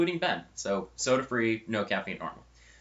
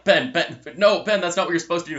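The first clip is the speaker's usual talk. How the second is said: loud, raised retold protest; alarmed objection; 6 semitones higher, 7 dB louder than usual. Student stopping friend pouring tea into milk, acted alarm. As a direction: cut in urgently, acting out dismay.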